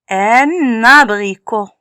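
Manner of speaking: "Un abricot" with a held n linking the words; liaison. Shown as a demonstration. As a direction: carry the n of "Un" into "abricot". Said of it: "Ici, on met la liaison". (« Un abricot » avec le n de liaison)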